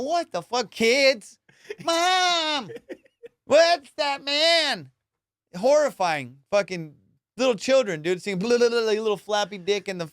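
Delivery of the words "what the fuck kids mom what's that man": put-on high, shocked kid crying out to mom; a child pointing up in horror; shocked onlookers. Kids below the naked skydiver call out to mom, high and horrified. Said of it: "people were just looking up going".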